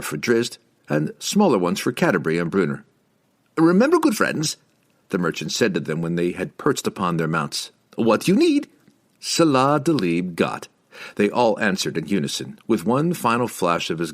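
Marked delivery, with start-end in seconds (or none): 3.6-4.6 higher, lively market trader; merchant voice. A narrator's reading. Merchant's voice in the story. 7.9-10.7 higher, lively market trader; merchant voice. A narrator's reading. Merchant's voice in the story.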